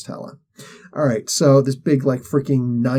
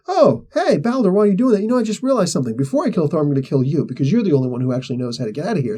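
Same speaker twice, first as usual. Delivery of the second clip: sweet menacing Hela; 3 semitones higher, much faster than usual. Retold or imitated. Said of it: "she's like".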